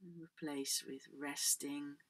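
guided relaxation. Acted. Yoga teacher guiding the class into letting go, guided relaxation.

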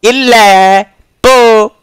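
very high, loud silly squeak; squeaky nonsense sounds. Pretend.

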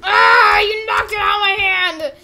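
high, crying complaint; hammed-up tearful yelling; pained wailing. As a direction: wail it out as if hurt. Character disarmed while wounded.

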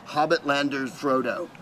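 slow made-up name. Retold or imitated. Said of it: "or Hobbit".

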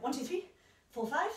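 slow, spaced-out count; slow counting with pauses. Shown as a demonstration. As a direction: count it out slowly, beat by beat. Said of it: "play around with the tempo".

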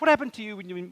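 usual speaking voice

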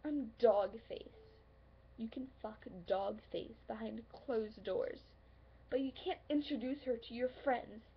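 bitter, forceful confrontation with punched key words; hurt accusation. Acted. Confronting a lover who is ashamed of her, hurt and accusing. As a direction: throw it at them, wounded and loud.

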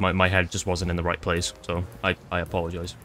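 mock apology. Player apologizing to a man he attacked, mock contrite.

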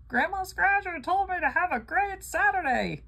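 high, loud goofy voice; mocking a viewer who blames her on the news; mock rowdy viewer. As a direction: ham up a silly troublemaker's excuse.

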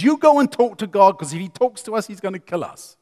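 high, loud frightened plea fading to a hush. Retold or imitated. Israelites begging Moses to speak for them, frightened.

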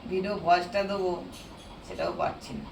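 hoarse, strained voice from a sore throat. Real, not acted. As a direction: talk through a hoarse throat. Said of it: "আমার গলাটা বসে গেছে".

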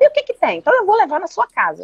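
high, laughing sarcastic retort; mock laughing old father brushing it off. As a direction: tease back with a laugh in the voice, pitched high. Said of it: "deu risada".

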